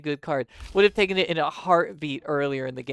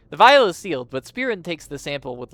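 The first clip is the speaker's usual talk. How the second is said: put-on Southern accent; 2 semitones higher, 8 dB louder than usual. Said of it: "maybe I should make her Southern".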